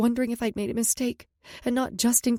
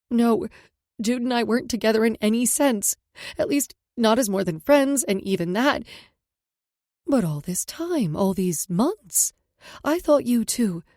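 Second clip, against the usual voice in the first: upset daughter; 3 semitones higher, 4 dB louder than usual. Acted. Kendall confessing to her mom.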